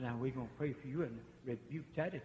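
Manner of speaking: soft, gentle promise; a touch of reassurance. Retold or imitated. Preacher retelling his soft words to the troubled man. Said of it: "I said".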